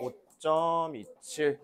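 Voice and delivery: "오점이칠" slowly, drawing out 점; measured teacher demo of "오점이칠"; digit-by-digit reading. Shown as a demonstration. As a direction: stretch "오점이칠" out, one digit at a time. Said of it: "이렇게 읽겠지".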